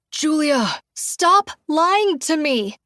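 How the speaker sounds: high, loud shriek. A narrator's reading. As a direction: shriek it at him. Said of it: "I shriek".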